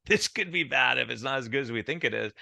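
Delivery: laughing it off through the same fear; chuckle, then a light, amused worry. Retold or imitated. Doctor at the filmed dinner, laughing nervously about the pizza. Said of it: "and I'm like".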